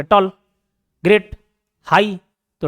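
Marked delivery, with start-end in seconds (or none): 0.0-0.3 "टॉल" as one short word. Shown as a demonstration. Teacher repeating a one-syllable example, "टॉल" in one go. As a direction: give "टॉल" a single beat. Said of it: "एक बार में खत्म हो गया".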